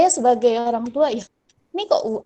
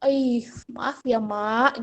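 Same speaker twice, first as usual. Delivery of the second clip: coaxing apology; much slower than usual. Retold or imitated. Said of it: "Dia mau membujuk".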